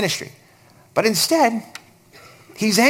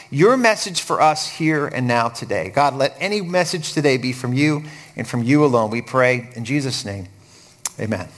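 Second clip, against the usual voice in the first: subdued pastoral prayer, settling lower at the close; earnest, even-paced praying aloud; 6 semitones lower than usual. Real, not acted. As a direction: lead a congregation in prayer. Leads the congregation in prayer.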